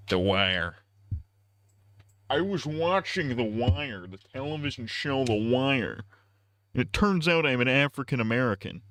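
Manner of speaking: a lightly voiced joke character; put-on joking voice. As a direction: deliver it as a deadpan bit.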